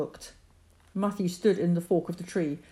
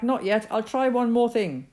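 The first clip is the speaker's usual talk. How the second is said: shouting back; 6 semitones higher, 5 dB louder than usual. Acted. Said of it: "Matthew shouted back".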